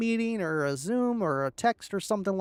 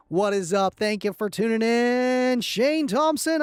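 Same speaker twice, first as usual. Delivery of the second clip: radio announcer voice; 3 semitones higher, 4 dB louder than usual. Real, not acted. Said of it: "I sound like a radio guy".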